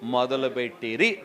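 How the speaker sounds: slow, measured reading of the verse; slow Bible reading; scripture reading. Acted. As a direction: read the verse slowly and solemnly.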